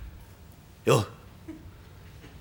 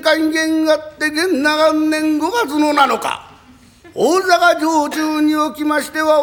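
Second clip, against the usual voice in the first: kōshaku recitation; slower than usual. Acted. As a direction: intone the battle tale like a kōshakushi, then roar the attack. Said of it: "講釈師というのは我々話し方はまたちょいと違いましてね". (講談師の語り口、ゆっくり朗々と、最後は大声で攻め込む)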